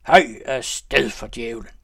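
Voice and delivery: loud, slow, drawn-out battle cry; distant wild shout. A narrator's reading. The leader riding off, a slow loud yell. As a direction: call it out across the night. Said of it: "anførerens stemme".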